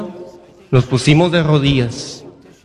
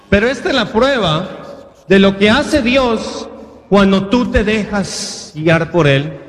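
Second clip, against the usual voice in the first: raised-pitch, emphatic sermon delivery; preaching; 4 semitones higher than usual. Real, not acted. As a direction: preach it in insistent, rolling phrases. Builds to a preaching exhortation.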